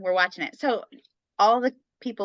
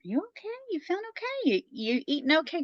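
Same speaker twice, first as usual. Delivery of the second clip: much higher, concerned mother-in-law; worried mother-in-law; 10 semitones higher, 4 dB quieter, faster than usual. Retold or imitated. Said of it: "she'd be like".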